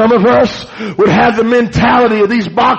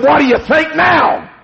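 higher, jeering call over the shoulder; taunting bully shout; 5 semitones higher than usual. Retold or imitated. Bully gloating after the beating, shouted taunt. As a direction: gloat at the beaten kid.

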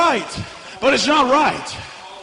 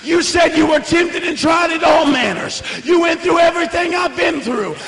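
retold shouted prayer; 2 semitones higher than usual. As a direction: cry out to Jesus for help. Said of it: "enough unction inside of me to say".

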